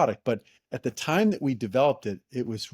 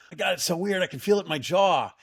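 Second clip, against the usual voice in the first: amazed friend; 7 semitones higher than usual. Retold or imitated. Friend feels device working.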